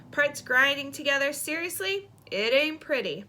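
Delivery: a hint of a breezy brother waving off a plea; lightly voiced reluctant brother. Brother dodging his sister's plea for writing help, breezily reluctant.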